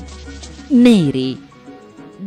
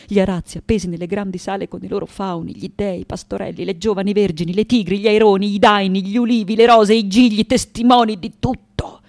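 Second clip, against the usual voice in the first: mounting urgency. Acted. Daughter recalling the tapestries that witnessed everything, mounting urgency. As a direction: rush through the list, rising to the end. List of memories builds up.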